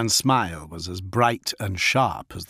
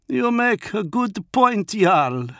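higher, slow, proud wolf chieftain; Fafnir the wolf lord; 12 semitones higher, 4 dB louder, slower than usual. Acted. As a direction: speak as the feral wolf lord, measured. Fafnir conceding.

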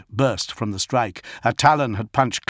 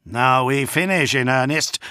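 spat back; 2 semitones higher than usual. A narrator's reading. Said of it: "the lion spat".

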